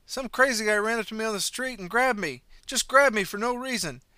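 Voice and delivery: high, loud frantic pleading; begging. Acted. Fleeing man frantically begs the driver to believe him. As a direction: spill the story in a panic. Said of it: "I beg you".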